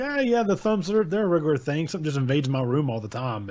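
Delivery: high-pitched breezy nonchalance, dropping back by the end; casual character voice. Retold or imitated. Podcaster voicing the story's narrator, breezily unbothered. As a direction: toss it off like it's an everyday nuisance. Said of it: "He's like".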